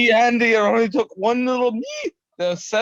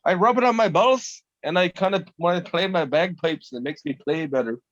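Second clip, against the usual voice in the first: playful Scottish brogue, dropping lower; put-on Scottish accent; 4 semitones lower than usual. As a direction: joke along in a mock Scottish accent. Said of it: "makes you talk in a Scottish".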